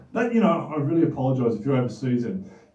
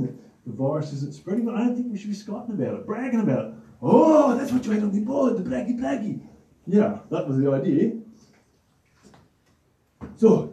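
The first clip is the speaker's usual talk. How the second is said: puppet Anton; 4 semitones higher than usual. Acted. Puppet Anton argues with Stephen.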